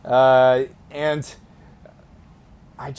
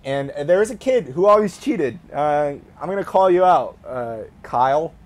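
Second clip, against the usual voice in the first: mock accusing; 3 semitones higher, 3 dB louder than usual. Real, not acted. Calls out cheating classmate Kyle.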